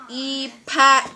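cape said backwards as e pack; backwards speech. Shown as a demonstration. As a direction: reverse the sounds of the word. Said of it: "Say it backwards".

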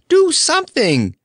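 a near-shriek of pleading; desperate begging. Acted. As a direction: beg as if it's the last chance. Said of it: "begged Dorothy".

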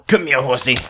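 loud coaxing to a horse; calling a pet. Real, not acted. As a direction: call the horse over.

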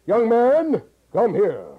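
big projected call with the jaw dropped; low open big voice. Shown as a demonstration. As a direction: call him over in a large open voice. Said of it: "All right, uh".

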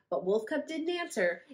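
plain reading voice

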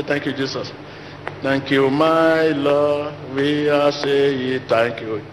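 slow sing-song mock thanks; mock rote prayer. Preacher mocking careless prayers, slow sing-song. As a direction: parody an empty chanted thank you. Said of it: "begin to say".

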